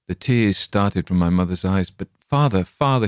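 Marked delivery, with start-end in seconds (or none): 1.9-3.1 higher pleading "father, father", a touch louder; pleading cry. A narrator's reading. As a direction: beg her husband with a mild cry. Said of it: "she cried".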